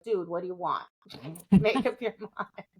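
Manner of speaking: impatient dog voiced through laughter; dog's voice. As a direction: play the fed-up dog, laughing as you go. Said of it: "my poor dog's sitting there like".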